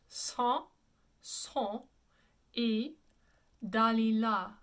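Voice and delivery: Samson as "sah(n)-soh(n)", nasal vowels; French pronunciation, syllable by syllable. Shown as a demonstration. Teacher breaks the title down for students, French pronunciation. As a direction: Samson et Dalila in separated chunks, "ay da-lee-la". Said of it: "This is actually pronounced".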